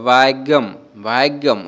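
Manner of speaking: "ভাগ্যম" with a long, held first vowel; model Malayalam pronunciation. Shown as a demonstration. Teacher saying watch how I say it, model pronunciation of "ভাগ্যম". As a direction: draw out the "ভা" in "ভাগ্যম". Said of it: "তো উচ্চারণটা দেখো এরকম".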